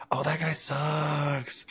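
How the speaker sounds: hammed-up partner voice dismissing a player; mock dismissive girlfriend. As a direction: drag it out, lightly mocking her verdict. Imitating partner dismissing Ray Rice.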